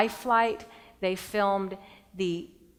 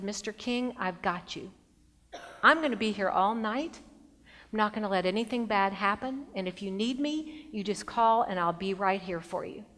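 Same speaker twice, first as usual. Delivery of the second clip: calm him down gently, no rush. Retold or imitated. Doctor comforts crying patient.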